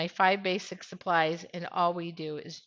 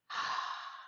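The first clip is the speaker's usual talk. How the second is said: effort grunt; 8 dB quieter than usual. Real, not acted. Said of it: "the grunting is not necessary".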